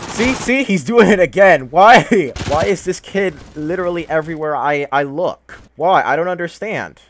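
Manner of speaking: screaming in high-pitched rage; shrieking furious at the game; berserk rage. Real, not acted. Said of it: "I literally screamed my entire throat out".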